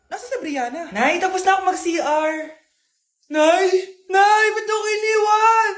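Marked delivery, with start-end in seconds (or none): 3.3-5.7 calling out. Acted. Child left behind, calling mother.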